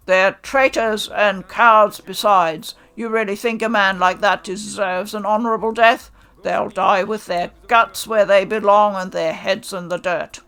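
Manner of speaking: loud, harsh condemnation; furious. Acted. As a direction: bark out the insults. Hichikata furious at cowards.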